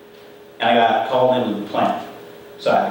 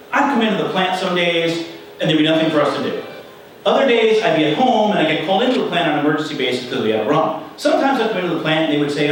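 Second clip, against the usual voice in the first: a light imitation of Colt, higher and quick; Colt's voice; 3 semitones higher, faster than usual. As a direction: retell the supervisor's complaint in a lifted, hurried voice. Colt quoted telling his story.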